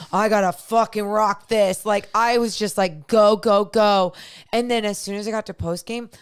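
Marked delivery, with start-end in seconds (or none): 0.1-1.8 retold self-hype. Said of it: "I gave so much". 3.1-4.1 retold self-hype. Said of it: "I gave so much in that pregame".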